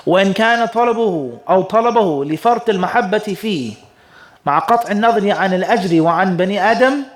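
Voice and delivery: brisk recitation of an Arabic text; quick formal reading of a scholarly text; classical Arabic text reading. Acted. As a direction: read the old Arabic text out quickly and evenly.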